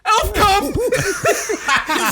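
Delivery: high, loud punchline yell; excited blurt. Retold or imitated. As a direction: blurt it out like an overexcited fan.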